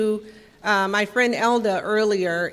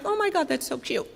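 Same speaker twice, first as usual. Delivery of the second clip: sarcastic gush; 7 semitones higher, 5 dB quieter than usual. Retold or imitated. Reacting to sponsees' jail bottom.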